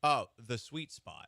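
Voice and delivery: "The Sweet Spot" said slowly and deliberately; slowly repeated name. Shown as a demonstration. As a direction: spell out "The Sweet Spot", word by word. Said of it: "Can you say that name one more time?".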